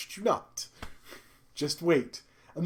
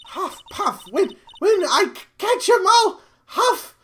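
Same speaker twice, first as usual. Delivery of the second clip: put-on high-pitched winded old lady, stammering; hammed-up breathless character voice; huffing and puffing; 13 semitones higher, 5 dB louder than usual. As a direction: puff the words out, rising louder. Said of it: "all that huffing and puffing".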